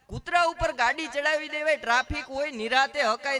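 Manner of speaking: a loud mock telling-off; mock scolding. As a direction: tell him off for careless driving. Scolding friend again.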